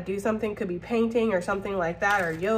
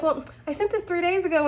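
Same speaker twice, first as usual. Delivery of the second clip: mock impatient coworker; 8 semitones higher than usual. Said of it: "They're like".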